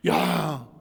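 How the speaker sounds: ordinary delivery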